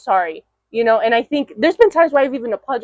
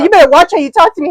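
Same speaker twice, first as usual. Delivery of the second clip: quick and louder, giggling through the brother's warning; can't keep a straight face quoting him; rushed mock warning broken by laughter; laughing quote; 5 semitones higher, 6 dB louder, faster than usual. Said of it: "he said".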